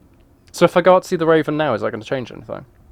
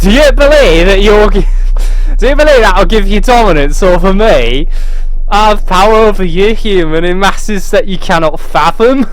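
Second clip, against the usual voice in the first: hammed-up villain raven in Scottish accent; menacing raven accent; 3 semitones higher, 8 dB louder than usual. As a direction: boom down at the human in a bad Scottish accent. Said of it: "the worst Scottish and Northern accents".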